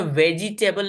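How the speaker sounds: वेजिटेबल as VE-JEE-TAY-BUL; four-syllable misreading. Shown as a demonstration. Teacher showing how it isn't read, वेजिटेबल with four syllables. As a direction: sound the middle E in वेजिटेबल as "jee". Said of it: "नहीं पढ़ते हैं".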